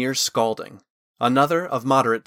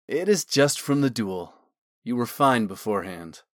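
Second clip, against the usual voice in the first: sly. Acted. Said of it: "he added slyly".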